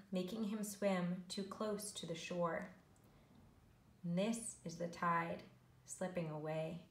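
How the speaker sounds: measured, rhythmic picture-book reading; story narration. A narrator's reading. Teacher reads snail story to learners, storytelling. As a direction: read the rhyme to young children, savouring it.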